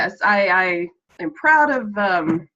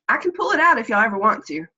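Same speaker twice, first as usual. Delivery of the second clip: Southern accent; faster than usual. Shown as a demonstration. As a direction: let a little Southern twang out. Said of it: "I can get real Southern".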